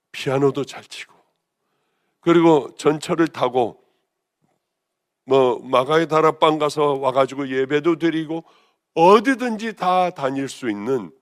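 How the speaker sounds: normal talking voice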